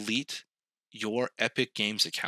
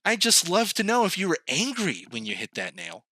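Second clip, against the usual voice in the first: lightly voiced nosy hammer, pitched higher; a prying tool asking questions in a higher voice; chatty hammer; 7 semitones higher than usual. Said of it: "Does the hammer go".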